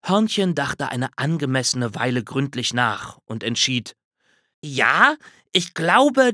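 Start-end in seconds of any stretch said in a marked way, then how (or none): 4.6-6.3 higher, louder tentative squirrel; decide it slowly, then pipe up; squirrel deciding. A narrator's reading. Squirrel answers the bear after thinking, piping up.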